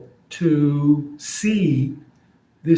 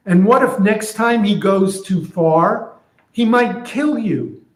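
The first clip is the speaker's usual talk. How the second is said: higher, lightly voiced fearful friend; worried friend; 6 semitones higher than usual. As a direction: friend warning of worse to come. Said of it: "So here's what I'm imagining".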